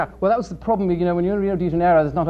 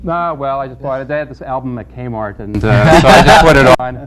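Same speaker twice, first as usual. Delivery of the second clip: put-on English accent, played straight; a mock-posh English accent; a hint of a fake English accent; phony English accent; 3 semitones lower, 9 dB louder than usual. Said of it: "that phony English accent".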